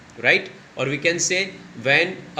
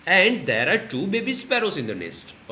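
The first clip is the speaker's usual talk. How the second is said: put-on slow, high child's voice; Nina telling; 5 semitones higher, much slower than usual. Shown as a demonstration. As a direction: tell it like a little girl. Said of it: "और वो बता रही है".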